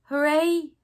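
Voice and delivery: high, loud burst of joy; happy cheer. Acted. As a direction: cheer it out like a delighted toy rabbit. Rabbit cheers to himself.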